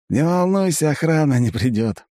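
high, scheming elf voice; a grinning elf with a plan; Aiven. A narrator's reading. Elf reassures.

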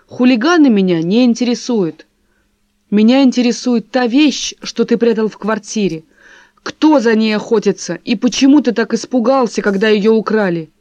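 pressing demand. Acted. Wife interrogating husband about the stolen thing, loud and insistent. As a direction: push him hard for answers.

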